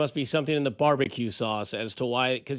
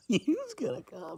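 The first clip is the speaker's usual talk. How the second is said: slow, soft, laughing Jersey "Yous gonna come"; mock Jersey accent; 8 semitones higher, 9 dB quieter, slower than usual. Radio host mocking a Jersey caller, in a hammy Jersey accent. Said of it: "Finally, it's somebody besides me".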